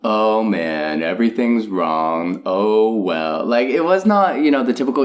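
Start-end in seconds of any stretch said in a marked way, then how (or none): 0.0-3.4 mock-depressed, drawn-out deadpan; Eeyore's ironic depression. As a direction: lightly mimic a gloomy Eeyore, slow and resigned. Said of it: "it was more ironic depression".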